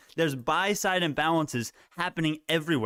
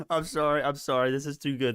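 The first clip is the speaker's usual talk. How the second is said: usual speaking voice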